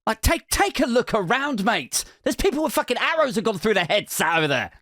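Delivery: exaggerated, indignant brush-off; brash pushback. Hospital staff pointing to worse patients, brashly dismissive. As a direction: imitate a brash, fed-up receptionist. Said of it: "they weren't that brash about it".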